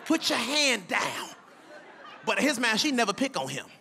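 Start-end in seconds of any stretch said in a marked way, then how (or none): 0.1-1.3 mock annoyed parent. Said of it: "I'm like".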